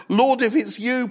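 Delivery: high, eager call; excited Peter. Acted. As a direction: blurt it out in high-pitched excitement. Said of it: "And in his excitement".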